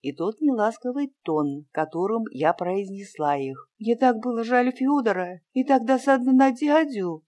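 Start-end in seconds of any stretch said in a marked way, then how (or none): 3.8-7.2 justifying herself. A narrator's reading. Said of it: "как бы оправдываясь".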